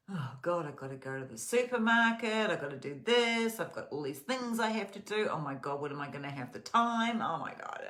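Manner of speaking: hammed-up stressed list of chores; mock frazzled panic. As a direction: act overwhelmed by the day's to-do list. Acted stressed morning thoughts.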